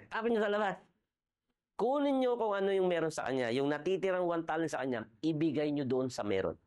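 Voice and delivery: angry command. Retold or imitated. Angry master orders soldiers.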